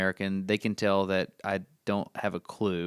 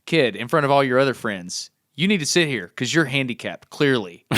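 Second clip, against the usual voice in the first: loud, blunt, wry retelling; mock blunt announcement; 3 semitones higher, 4 dB louder than usual. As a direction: spell out the gaffe. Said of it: "what I had told the kid".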